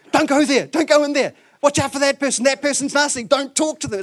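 high, loud mock warning at the screen; hammed-up yelling at a TV show. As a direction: shout at the TV like a hooked viewer. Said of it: "you yell at the T V screen".

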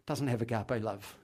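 ordinary delivery

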